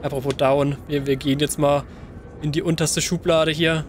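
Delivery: ordinary delivery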